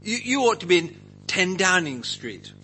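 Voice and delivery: mildly acted urgent protest; Peter. Disciple objecting to Jesus's plan, acted protest. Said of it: "you can see Peter saying".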